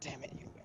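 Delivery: quiet whisper. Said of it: "I'm gonna whisper down to myself".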